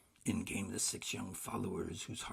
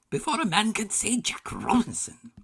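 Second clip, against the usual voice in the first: a fat jolly master calling out; big oily jovial shout; rich jovial call; 12 semitones higher, 12 dB louder than usual. A narrator's reading. Fezziwig calls out.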